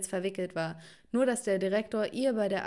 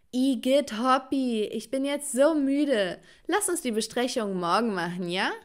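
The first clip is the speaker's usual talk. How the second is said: yawning; 3 semitones higher, 4 dB louder than usual. Acted. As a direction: stretch and yawn through the words. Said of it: "gähnte und streckte meine Arme aus".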